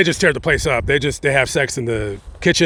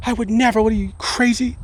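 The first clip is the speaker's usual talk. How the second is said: fake indignant denial; 6 semitones higher, faster than usual. Accused wife protests innocence.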